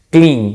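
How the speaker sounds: CLEAN said as one single beat; one-syllable demonstration. Shown as a demonstration. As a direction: say CLEAN in one breath, one sound. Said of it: "un solo golpe de voz". (CLEAN en un solo golpe de voz)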